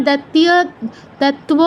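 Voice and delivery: "দত্তীয়" as dat-tiya, "দত্ত্ব" as dat-tuwo; wrong added glides. Shown as a demonstration. Teacher showing what not to say, "দত্তীয়" and "দত্ত্ব" with glides. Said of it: "ওরকম নয়".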